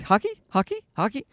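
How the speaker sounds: put-on tiny high quiet kid voice; small squeaky toddler questioning; obsessed toddler. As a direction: imitate a little boy repeating his one wish. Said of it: "the boy's obsessed with hockey".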